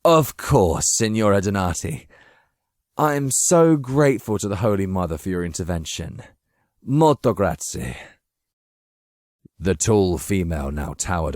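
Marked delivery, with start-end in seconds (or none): 0.0-8.0 eager, fawning thanks; flustered flattery. Acted. Machiavelli fawning over his rescuer, flustered and eager. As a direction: cover the slip with flattery.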